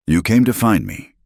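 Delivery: pained accusation. A narrator's reading. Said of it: "he said, his face twisting".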